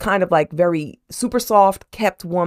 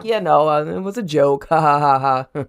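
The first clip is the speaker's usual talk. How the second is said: forced fake laugh. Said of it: "she's like".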